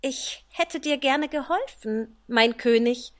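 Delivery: a hint of an apologetic doctor. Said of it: "sagte sie".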